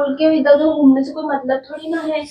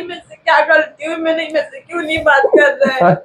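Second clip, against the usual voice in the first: crying. Real, not acted. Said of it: "तो इसमें रोने वाली कौन सी बात है यार?".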